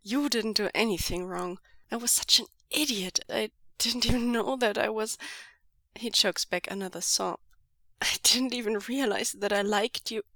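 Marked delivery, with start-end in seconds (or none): 0.0-5.2 louder, fast tearful plea; mild teary pleading. Acted. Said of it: "Wei Ying pleads". 8.0-10.2 lamenting. Acted. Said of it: "he laments".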